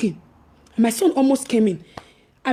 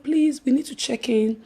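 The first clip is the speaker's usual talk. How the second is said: quiet; 5 semitones lower, 6 dB quieter than usual. Retold or imitated. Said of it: "I said".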